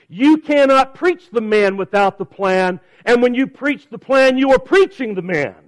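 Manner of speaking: slow, weighty stress on "you cannot preach the man"; emphatic. Real, not acted. Preacher submits his key point to the congregation, emphatic. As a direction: drive home "man" and "plan" with deliberate emphasis. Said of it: "as emphatically as I possibly can".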